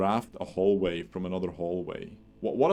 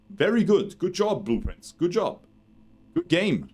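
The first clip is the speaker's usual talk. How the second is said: excited praise; 8 semitones higher than usual. Real, not acted. Praising the game character excitedly.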